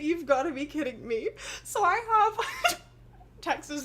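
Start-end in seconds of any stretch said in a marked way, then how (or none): 0.0-1.3 laughing disbelief. Retold or imitated. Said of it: "my mom was like".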